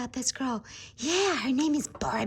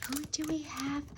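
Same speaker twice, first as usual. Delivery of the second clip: breathy whispered question; 4 semitones higher, 5 dB quieter than usual. Shown as a demonstration. Host whispers to viewers while opening the box. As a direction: hush it to the viewers.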